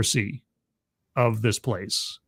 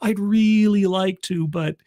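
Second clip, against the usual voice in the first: high, hesitant, stammering refusal; reluctant priest; 7 semitones higher than usual. Acted. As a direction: hem and haw apologetically, pitched up. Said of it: "And the guy's like".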